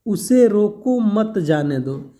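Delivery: slow "उसे रोको मत जाने दो" run together without a break; no comma pause. Shown as a demonstration. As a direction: read "उसे रोको मत जाने दो" as one ambiguous phrase. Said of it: "ये कोई मतलब नहीं समझ में आ रहा है".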